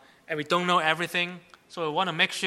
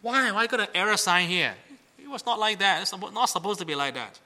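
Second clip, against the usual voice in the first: higher-pitched retold scolding; mock boss yelling; 5 semitones higher than usual. Boss confronting his intern over a spreadsheet error, mock yelling. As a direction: imitate an exasperated boss, pitched up. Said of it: "So the boss was yelling".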